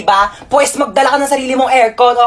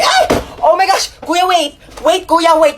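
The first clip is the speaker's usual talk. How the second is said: mock calling out; 6 semitones higher, slower than usual. Calling after pickpocket.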